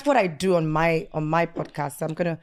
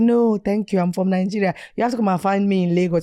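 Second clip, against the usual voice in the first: lightly hammed Nigerian refusal; mock-Nigerian brush-off; put-on Nigerian accent; 3 semitones higher, 6 dB louder than usual. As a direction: turn him down in a Nigerian accent. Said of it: "I put on the worst Nigerian accent".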